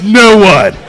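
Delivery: loud mock white-guy answer; lightly mimicked white guy in the crowd. Comic mimicking a white guy in the audience, mock white-guy voice. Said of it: "how the white guy goes".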